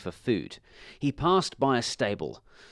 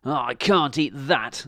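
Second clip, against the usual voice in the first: angry; 3 semitones higher, 4 dB louder than usual. Acted. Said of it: "said the dog angrily".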